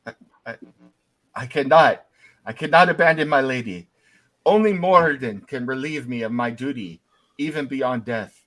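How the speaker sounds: a lightly voiced old dwarf guard refusing, firm; stubborn ghost knight. Ghost knight to the party, firm loyal refusal. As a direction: hold your post, loyal and unbending.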